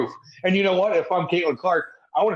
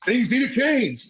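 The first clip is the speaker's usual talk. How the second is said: slow, higher mock-serious coach voice; 9 semitones higher, slower than usual. Co-host mocking the coach's speech, slow and pitched up. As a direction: drag it out like a self-important coach. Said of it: "the coach comes out like".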